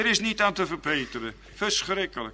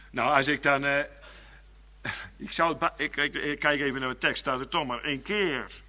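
ordinary talk, nothing marked

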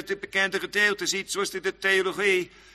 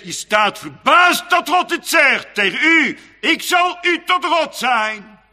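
preaching at full force; 9 dB louder than usual. Acted. Preacher repeats God's promise to the church, building to a shout. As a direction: hammer the promise home, building.

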